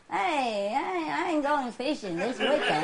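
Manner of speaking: hammed-up folksy neighbor chat; lightly put-on voice of a chatty neighbor; neighbor impression. Speaker mimics neighbors chatting about fishing, folksy impression. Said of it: "I talk like the people, the neighbors".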